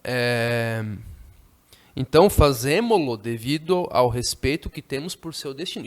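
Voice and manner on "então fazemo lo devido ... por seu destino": teacher reads the novel's line to the class; reading the text aloud. Shown as a demonstration. Teacher reads the passage aloud to students, a little louder. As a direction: read the book's sentence aloud, a touch louder. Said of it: "tô tornando as frases aqui mais simples".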